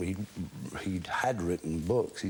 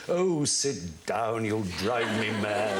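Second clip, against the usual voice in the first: lightly voiced weary teacher; slower than usual. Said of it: "And he said".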